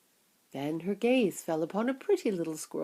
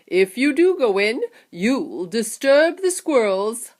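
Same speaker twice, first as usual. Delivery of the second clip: eager showman Wonka warning, raised and loud; excited Mister Wonka; 3 semitones higher, 7 dB louder than usual. Acted. Wonka stopping the children at the door, urgent and loud. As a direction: hurry them along with a bright warning.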